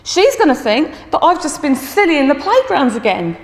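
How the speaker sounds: mock tearful worry; imitated crying pupil. Tearful boy tells teacher his mum will blame him, upset. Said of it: "And he's still crying".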